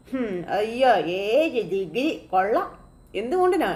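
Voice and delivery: slow sneering "ഏഴ് degree കൊള്ളാം" with a rising tune on ഏഴ്; mocking. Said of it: "Bhama ഇങ്ങനെ സുധി അവിടെ ഇട്ട് കളിയാക്കുക". (പരിഹാസത്തോടെ പതുക്കെ "ഏഴ് ഡിഗ്രി കൊള്ളാം")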